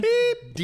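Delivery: high squeaky beep; mock censor beep. Host bleeps his own insult with a squeaky beep.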